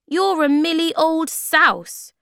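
high, loud, drawn-out imitation; slow squeaky mimicry; mimicking tiny creatures. A narrator's reading. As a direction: repeat their odd words in their high voice. Sniff mimics the creatures' language.

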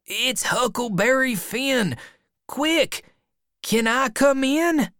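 very high, urgent calling; urgent boy. A narrator's reading. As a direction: beg to be let in, high-voiced. Huck begging to be let in.

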